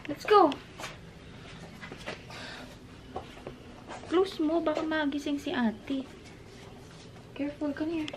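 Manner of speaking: softly coaxing, kept down; quiet at night. Real, not acted. Hushing child near sleeping sister.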